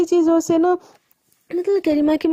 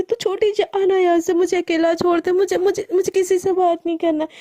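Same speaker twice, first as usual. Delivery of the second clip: shouting; 3 semitones higher than usual. Acted. Crying sister yelling at her younger sister to leave. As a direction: snap at the little sister to go away. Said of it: "एकदम चिल्ला के बोलती".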